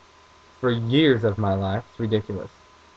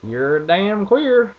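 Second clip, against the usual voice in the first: slow, louder, higher country dad; dad's voice; 7 semitones higher, 5 dB louder, much slower than usual. Retold or imitated. Imitating dad teasing his son about the bag, slow and loud. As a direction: stretch it out like the dad. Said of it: "he's like".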